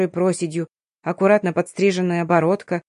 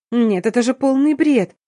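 higher and louder, a disbelieving protest; indignant outburst; 5 semitones higher, 4 dB louder than usual. A narrator's reading. Daughter cutting off her father, higher and louder protest. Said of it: "перебила я".

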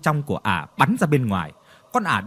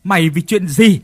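angry accusation. Acted. Hùng confronts his brother angrily.

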